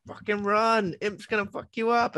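high, urgent mock warning; Link's frantic warning. Link warning people about Imp, frantic and high. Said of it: "like, going".

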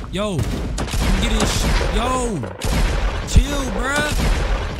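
yelling as an enemy suddenly shoots him; startled yell. Real, not acted. Gamer startled mid-fight, sudden high loud yell. Getting shot at in game.

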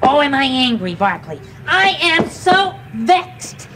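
hammed-up anger building to growls; acted angry. Shown as a demonstration. Teaching a dog to act angry, hammed-up anger. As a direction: work up a big mock rage. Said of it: "Now let's try being angry".

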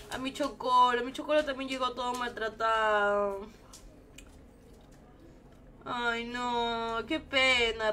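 on the verge of tears over an animal; a punto de llorar. Real, not acted. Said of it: "me voy a poner a llorar". (con pena, casi llorando)

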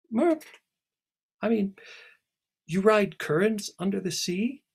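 high, loud amazed question; astonished. Acted. Alice marvels at Celia's undersea currents. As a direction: catch yourself in wonder.

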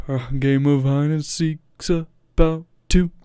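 slow, growling bass fry, dragged out; deep vocal fry imitation. Reacting to a bass singer's line, slow deep fry imitation. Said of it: "he was like".

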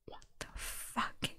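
slow stunned whisper. Real, not acted. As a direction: breathe it out in shock. Reader whispers reaction.

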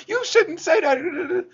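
mock girl in high, drawn-out falsetto; imitated scolding girl. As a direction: squeal it slowly as an offended girl. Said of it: "I get some girl from".

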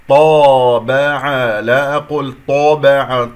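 طابع with rounded lips, the ط like طو; wrong lip-rounding demo. Shown as a demonstration. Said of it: "يكور الشفتين".

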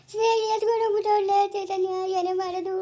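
acted wail over lost savings; woeful, tearful plea; tearful lament. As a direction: lament helplessly, breaking into crying. Lamenting stolen savings to Chaitanya.

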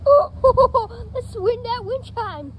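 high giddy laugh through words. Real, not acted. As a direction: laugh while calling out. Laughing in the wind.

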